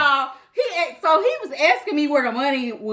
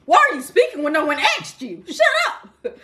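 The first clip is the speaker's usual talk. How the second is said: sassy quote; 3 semitones higher than usual. Retold or imitated. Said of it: "Like a rapper says".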